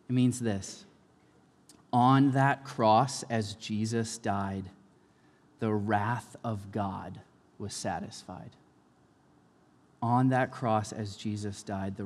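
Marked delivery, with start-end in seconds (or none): 1.9-8.5 slow song line. Shown as a demonstration. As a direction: let each phrase hang in the air. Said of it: "a line in the song".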